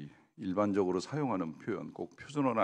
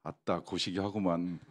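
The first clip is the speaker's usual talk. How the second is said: lightly voiced Jeolla dialect, "아따, 고시기 하구만" said evenly with no extra push; a casual Jeolla phrase in a light dialect lilt; 3 semitones lower, 5 dB quieter than usual. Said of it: "전라도 버전은". (가볍게 흉내 낸 전라도 사투리, 힘주지 않고 담담하게)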